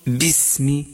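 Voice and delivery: باسم with a clear kasra on ba, said as bismi; correct basmala. Shown as a demonstration. Teacher repeats the right form of باسم. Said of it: "هكذا".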